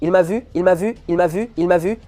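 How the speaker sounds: loud high frightened no; panicked screaming. Real, not acted. Spotted by Santa.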